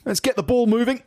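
high-pitched put-on character voice; hammed-up office colleague laying down the law; earnest office chap. Acting out office chap's phrases.

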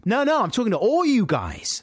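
high, loud call to the whole carriage. Retold or imitated. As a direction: call across to all of them. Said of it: "I said".

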